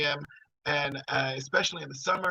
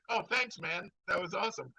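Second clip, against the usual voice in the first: mock-bright thanks pitched higher; sarcastic thanks; 3 semitones higher, 5 dB quieter than usual. Thanking the psychic for the gloomy reading, sarcastically. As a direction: thank him with dry irony.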